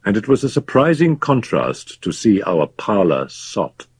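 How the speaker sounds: plain reading voice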